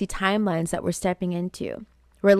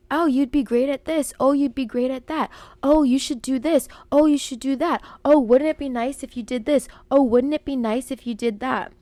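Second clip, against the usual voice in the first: encouraging inner voice; 5 semitones higher than usual. Pretend. New self encouraging you.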